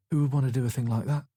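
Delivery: weary Yorkshire widow, unenthusiastic; flat, grudging Yorkshire voice; Yorkshire accent. A narrator's reading. Grieving widow offering tea, in a Yorkshire accent. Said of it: "She had a solid Yorkshire accent".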